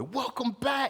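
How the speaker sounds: very high, ecstatic voice full of joy. Retelling the prodigal son story, acting out the excited parent welcoming him. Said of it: "the parent is like excited, maximum joy".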